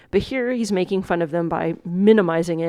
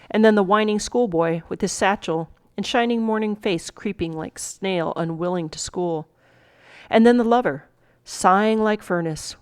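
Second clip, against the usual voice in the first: measured Shakespeare monologue reading; dramatic recitation. Acted. Teacher reading the monologue to students, dramatic recitation. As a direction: recite it with weight on each new figure.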